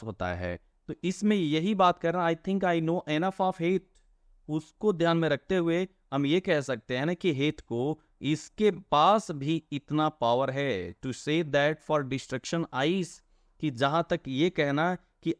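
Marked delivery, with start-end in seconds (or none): 2.3-3.8 poem reading. Shown as a demonstration. Teacher quotes poem line slowly. 11.1-13.1 poem reading. Shown as a demonstration. Teacher reads poem line slowly.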